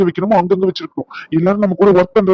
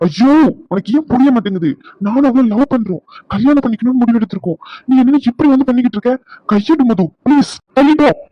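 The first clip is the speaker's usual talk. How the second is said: exasperated pleading; 5 semitones higher than usual. Acted. Exasperated, begging her to let go.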